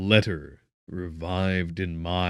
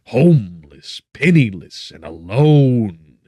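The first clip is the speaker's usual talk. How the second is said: anguished outcry; 5 semitones higher, 13 dB louder than usual. Acted. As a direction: cry out the loss, line by line. Victor's anguished outburst about freedom.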